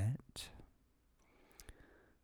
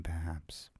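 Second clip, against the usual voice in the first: new storyteller voice; 3 semitones lower, 8 dB quieter than usual. Shown as a demonstration. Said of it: "I don't even know where this voice came from".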